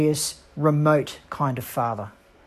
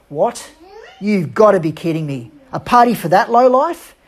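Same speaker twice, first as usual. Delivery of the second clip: indignant outburst; 3 semitones higher, 6 dB louder than usual. Acted. Older brother's outraged reply.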